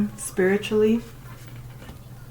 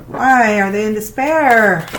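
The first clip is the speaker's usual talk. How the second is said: surprised; 8 dB louder than usual. Real, not acted. Startled by tarot card.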